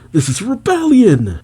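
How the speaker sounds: high, alarmed mock shout; calling out. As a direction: cry it out like a soldier raising the alarm. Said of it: "As the soldiers call out".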